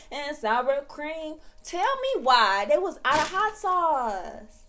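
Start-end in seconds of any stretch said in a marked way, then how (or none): 1.6-4.6 loud, disbelieving rant; indignant complaint. Real, not acted. Complaining about no hot sauce.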